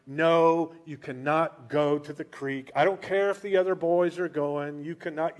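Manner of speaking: put-on loud, firm no to the boy; a protective mom laying down the law; strict mother. Mary forbidding young Jesus the creek, loud and firm. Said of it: "that's how Mary was with Jesus".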